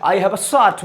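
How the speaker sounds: "a" as a light "uh" in I have a shirt. Shown as a demonstration. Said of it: "आ का उच्चारण होता है". ("a" का सामान्य "आ" उच्चारण)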